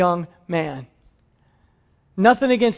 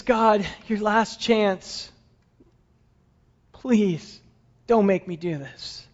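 slow, softer plea; desperate begging; 3 dB quieter, slower than usual. Acted. Abraham begging God one last time, slow and soft. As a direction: plead slowly, almost breaking.

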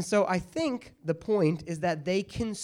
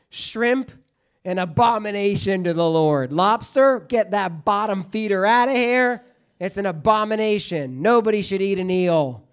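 louder, hammed-up preacher condemning seafood; mock fire-and-brimstone decree; 5 dB louder than usual. Bible teacher to class, mock preacher decree. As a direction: thunder it like a joking prophet. Mock pronouncing foods an abomination.

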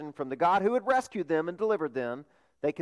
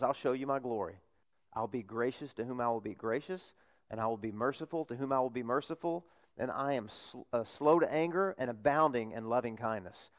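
soft voice of God; 4 semitones lower, 7 dB quieter than usual. Acted. Preacher voices God speaking.

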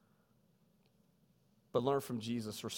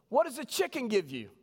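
louder, higher call to the class; mock teacher yell; 9 semitones higher, 4 dB louder than usual. Teacher quizzing students on food, mock yell. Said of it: "the teacher would scream out".

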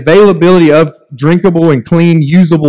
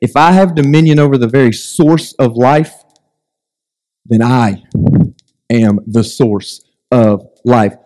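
voice of God; 4 semitones lower than usual. Retold or imitated. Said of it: "And he's saying".

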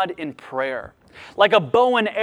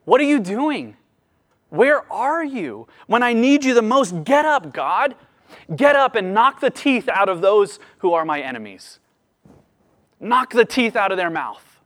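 pleading prayer; 4 semitones higher than usual. Retold or imitated. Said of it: "He's saying".

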